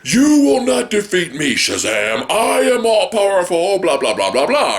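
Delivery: megalomaniac rant. Retold or imitated. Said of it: "the villain speech".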